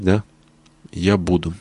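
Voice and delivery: ordinary delivery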